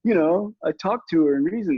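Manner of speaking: a pompous, know-it-all parent voice; smug past self. Retold or imitated. Parent mocking what he said on the earlier podcast, smug high mock tone. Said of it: "I'm like".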